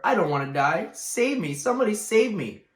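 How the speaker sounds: high, loud terrified begging; panicked plea. Acted. Wilbur begging the barn to save him, panicked. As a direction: beg for your life, shrieking.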